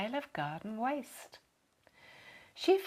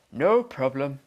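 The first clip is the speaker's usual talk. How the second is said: familiar catchphrase; 8 semitones lower, 8 dB louder than usual. A narrator's reading. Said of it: "with his familiar phrase".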